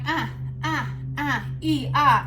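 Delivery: short "ah, ee" noises of mild resistance; little pained yelps. Shown as a demonstration. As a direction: act out small twinges in the stretch. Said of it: "I feel a little resistance. I'm like".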